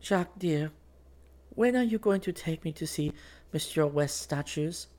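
high-pitched, bright coaxing; speaking up brightly. A narrator's reading. Girl asking Jack for an outing, bright. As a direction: ask sweetly in a high girlish voice. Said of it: "she spoke up brightly".

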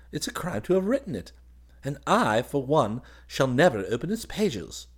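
high, emphatic officer's voice; indignant young officer. Acted. Officer condemning a wicked book to his cousin, indignant. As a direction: rail at it in a high, lively voice.

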